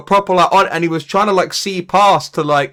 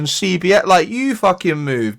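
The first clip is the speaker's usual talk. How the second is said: higher-pitched indignant rant; indignant retort; 3 semitones higher than usual. Retold or imitated. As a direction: argue back at the critics in disbelief. Indignant retort to online commenters.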